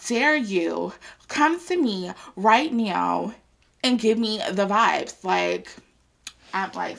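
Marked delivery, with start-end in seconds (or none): 0.1-5.2 mock outrage. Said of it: "I'm just like".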